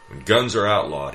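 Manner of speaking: loud, high-pitched political rant; shouting. Acted. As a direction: shout it at the whole table. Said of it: "he shouted at a table".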